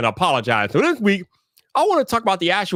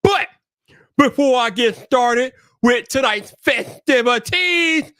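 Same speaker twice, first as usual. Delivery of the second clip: slightly raised, drawn-out host greetings; hype roll call; 6 semitones higher, slower than usual. Acted. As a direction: announce each guest like a show host. Hyped roll call of chat.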